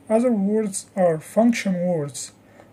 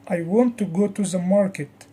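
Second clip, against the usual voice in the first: I stressed to mean me, not someone else. Shown as a demonstration. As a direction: put the weight on I. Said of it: "it means not you, me".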